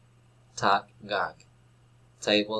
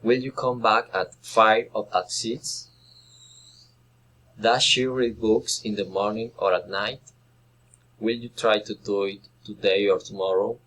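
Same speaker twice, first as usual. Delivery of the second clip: choice questions rising on "five", "morning", "today"; rising-falling intonation. Shown as a demonstration. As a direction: lift the first option, "five", "morning", "today", then resolve on the second. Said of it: "rising and falling intonation".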